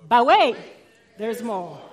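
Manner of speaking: hammed-up infomercial announcer; infomercial pitchman. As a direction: belt it like a late-night infomercial host. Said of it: "You've all seen the infomercials".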